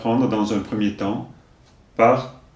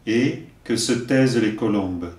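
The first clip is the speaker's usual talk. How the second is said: poem recitation; 2 semitones lower than usual. Acted. Teacher giving verses for learners to repeat, measured recitation. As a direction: recite line by line, leaving room to repeat.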